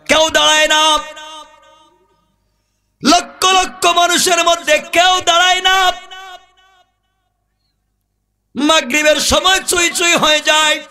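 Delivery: high-pitched, sustained sermon chant; full-force preaching. A narrator's reading. Preacher telling of crowds rushing to the funeral, high chanting sermon. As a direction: preach it high, holding the line endings.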